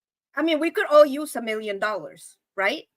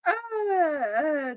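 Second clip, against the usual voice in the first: near tears; 2 semitones higher, 4 dB quieter than usual. Real, not acted. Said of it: "don't get me crying".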